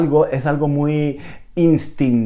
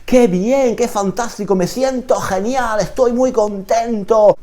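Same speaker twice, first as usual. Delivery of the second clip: excited Spanish; 9 semitones higher than usual. Shown as a demonstration. Teacher modelling excited Spanish phrases, high and joyful. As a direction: sound genuinely thrilled. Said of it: "mejor no decir... sino".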